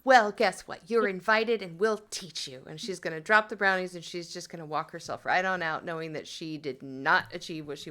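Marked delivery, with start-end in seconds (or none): 0.0-2.6 louder, bright retort; loud chirpy comeback. Acted. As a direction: pop it out loudly and cheerfully. Cheery comeback to Marge.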